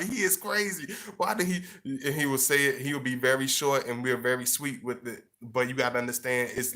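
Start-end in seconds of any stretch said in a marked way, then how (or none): 0.0-1.6 pitched up, baffled; pitched-up bafflement at a puzzling boyfriend; mock puzzled woman. A woman confused by her boyfriend's words, pitched-up bafflement.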